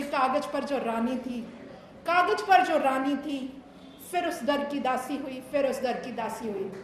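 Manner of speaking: measured delivery of satirical Hindi verse; poem recitation. Acted. Poet telling of netaji and his wife, measured recital. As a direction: recite it line by line, pausing for the audience.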